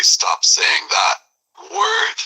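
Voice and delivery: angry. Acted. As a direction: drag it out, voice breaking up on word. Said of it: "extremely irritated and angry".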